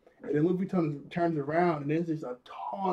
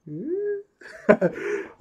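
high, loud cocky laugh; gleeful laugh; 8 semitones higher, 5 dB louder than usual. Retold or imitated. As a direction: laugh like you're ready to fight. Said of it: "he's like".

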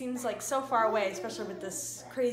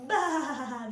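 sheep bleat; 4 semitones higher, 7 dB louder than usual. Pretend. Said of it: "What does the sheep say?".

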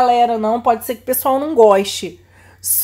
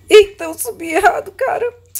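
laughing; 9 semitones higher, 4 dB louder than usual. Real, not acted. Climbed wrong way, laughing.

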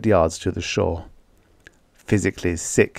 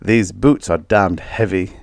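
doubtful. A narrator's reading. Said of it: "Bradford remarked doubtfully".

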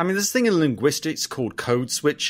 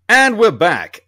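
much higher, louder cheesy ad-break voice; mock announcer; 8 semitones higher, 8 dB louder, slower than usual. Podcast host jokingly cutting to ads, high and loud announcer. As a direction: hype up the ad break like a radio host.

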